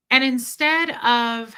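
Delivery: normal talking voice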